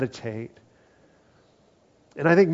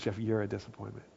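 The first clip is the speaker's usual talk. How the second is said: devil's taunt; 5 semitones lower, 11 dB quieter, faster than usual. Retold or imitated. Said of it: "the devil goes".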